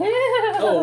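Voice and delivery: high startled oh; surprised oh. Real, not acted. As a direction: catch yourself, surprised. Sudden remembering.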